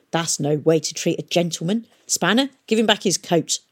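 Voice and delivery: usual speaking voice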